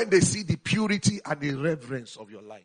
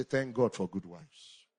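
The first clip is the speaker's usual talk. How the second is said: slow, softer call for the church to repeat; 4 semitones lower, 5 dB quieter, much slower than usual. Shown as a demonstration. Preacher giving the church a line to echo, slow and soft. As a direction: lead the congregation line by line, slowly.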